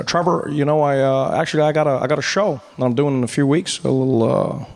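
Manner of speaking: lightly voiced Obama inviting Trevor to perform; Obama, casual invite. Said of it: "and he said".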